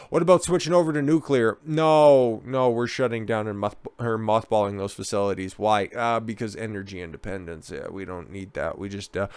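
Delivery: a lazy, fading mock politician; mock dialogue. Acted question and EU reply.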